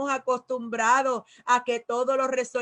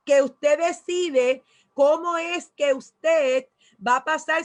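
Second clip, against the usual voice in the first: full-force preaching. Acted. Preaching climax.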